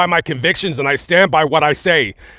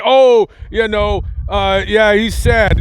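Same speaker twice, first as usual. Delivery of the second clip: higher, slow sing-song mockery of fake pity; mock sympathy; 4 semitones higher, slower than usual. Scoffing at viewers who'd pity fake tears, mock sympathetic. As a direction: sneer at people who'd call it crocodile tears. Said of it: "to say".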